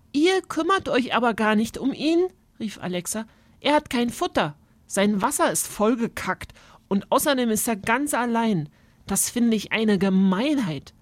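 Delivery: put-on indignant girl. Girl scolding the adults for neglecting the bird, indignant. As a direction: protest it's unfair, like a child. Alexa scolds the grown-ups.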